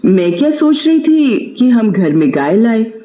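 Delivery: earnest wife's voice; pious wife. Acted. Seth's wife advising him to bathe and worship the cow. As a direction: suggest it gently, like a devout wife.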